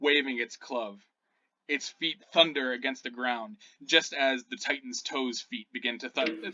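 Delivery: measured, dramatic narration; game master's scene setting. Acted. Game master describing the charging giant, suspenseful narration.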